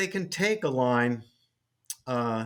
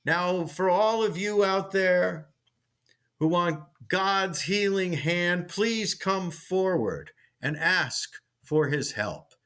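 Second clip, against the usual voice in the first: slow, drawn-out preacher call; booming revival preacher, slowed down; 3 semitones higher than usual. Retold or imitated. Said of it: "in the show where he says".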